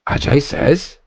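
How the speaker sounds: "says" rising like a question; mimicked TTS intonation. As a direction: imitate the robot voice querying "says". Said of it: "it changes the intonation of the voice".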